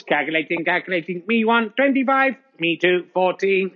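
lightly voiced robot announcer. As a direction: count the scores like a calculating machine. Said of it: "Let's go to Robot Voice".

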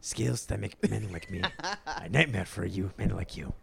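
poorly faked Scottish accent, movie-threat style; botched Scottish accent on a threat. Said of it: "That's my Scottish accent".

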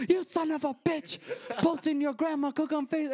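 very high outraged scolding; imitating angry grandma. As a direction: scold as a yelling Italian grandma. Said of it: "these little Italian ladies yell".

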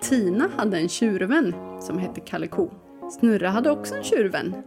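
storytelling read-aloud over music; story narration. Acted. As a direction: read it like a children's tale.

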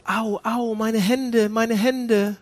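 mock complaint of pain; mock whining about pain. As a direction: whimper it like a self-pitying sufferer. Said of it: "Jesus sagt nicht hier am Kreuz".

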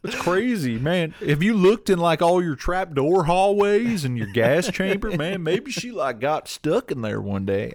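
podcaster's jokey Boston cop voice questioning the killer; mock Boston accent. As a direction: play a nosy Boston cop badly, up high. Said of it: "Why do you sound like Larry the Cable Guy?".

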